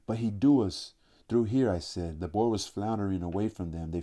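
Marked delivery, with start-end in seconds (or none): 0.1-0.9 raised alarmed call; shouting. Acted. Boy shouting warning in hunt. 1.3-1.7 loud urgent call. Acted. Calling out during the chase.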